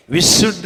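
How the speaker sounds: विशुद्ध with a strong hissed "sh"; whistling sibilant. Shown as a demonstration. Teacher points out the whistle, hissed "sh" in विशुद्ध. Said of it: "सीटी आती है".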